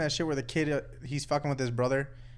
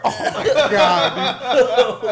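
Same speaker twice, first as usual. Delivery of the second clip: slow, laughing, louder and higher; laughing disbelief; 6 semitones higher, 10 dB louder, much slower than usual. Retold or imitated. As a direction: crack up while you say it. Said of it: "I'm like".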